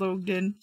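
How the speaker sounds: "Ogden" with a long O, as OHG-din; playful mispronunciation. Shown as a demonstration. Host reuses the funny outsider version, OHG-din "Ogden". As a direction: say "Ogden" with an OH at the front. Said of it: "So I like to say Ogden now".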